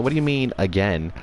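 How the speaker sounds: mock-indignant, pitch jumping up early; lightly acted angry question; mad retort. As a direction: act out someone mildly mad, challenging what was said. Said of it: "Lee got mad".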